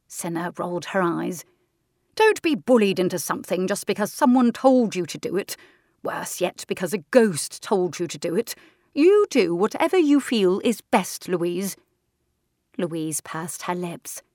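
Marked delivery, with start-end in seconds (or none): 2.2-11.8 firm aunt. Acted. Aunt Senna advising firmly.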